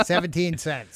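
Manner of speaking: pirate voice. Pretend. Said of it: "talk in a pirate voice".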